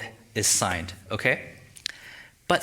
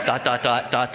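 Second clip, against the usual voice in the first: ordinary talk, nothing marked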